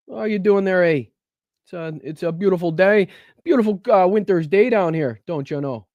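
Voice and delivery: high, sing-song mock Minnesota accent, playing up the "eh" and "don't you know". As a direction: pitch the Minnesota accent up and lay on the folksy charm. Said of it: "is that Minnesota? ... We're all Canada".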